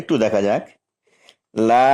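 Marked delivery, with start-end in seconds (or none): 1.7-1.9 লা held for four counts; long vowel stretch. Shown as a demonstration. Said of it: "চার আলিফ টান দিতে হবে". (লা দীর্ঘ টেনে পড়া)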